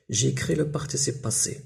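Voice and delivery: reading the exercise heading slowly; slow dictation. Shown as a demonstration. Teacher slowly reads the exercise instruction aloud to pupils. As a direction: spell out each word for the class. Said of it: "خصني نكتب لو بارتيسيب باسي".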